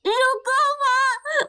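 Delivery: slow, drawn-out plea to stop; pleading wail. Acted. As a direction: cry out for your mother to stay. Child begs mother to stay. (रोते हुए धीमी पुकार)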